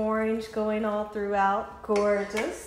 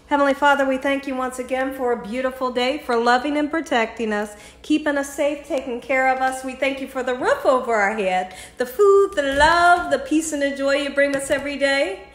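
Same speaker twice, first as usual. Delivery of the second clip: raised, steady praying voice; spoken grace before drinking; heartfelt prayer; 3 semitones higher, 4 dB louder than usual. Real, not acted. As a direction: offer thanks in a rolling list, building on key words. Says a prayer over the drink.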